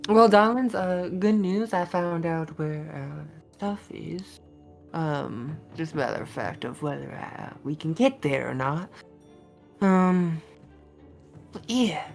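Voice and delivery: put-on Southern accent for a character; addressing the party in a Southern accent. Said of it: "Every time I have to switch fucking accent".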